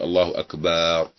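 أكبر with the ba drawn out long, said slowly; stretched ba, slow. Shown as a demonstration. Teacher demos the wrong drawn-out ba. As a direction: drag the ba in الله أكبر. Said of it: "ويقول".

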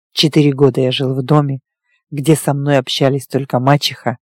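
low, even male character voice; werewolf recounting his past. Acted. Werewolf telling his lover of his childhood, restrained low voice. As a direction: tell a painful history with restraint.

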